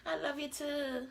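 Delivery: high, sing-song mock of a gullible girl; mock naive reply. Mocking her younger self answering a man's sweet talk, high and sing-song. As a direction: play the dumb lovestruck girl saying it back. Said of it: "you'll sit back".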